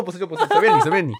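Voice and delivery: a hint of a huffy old uncle; lightly voiced old man. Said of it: "他说".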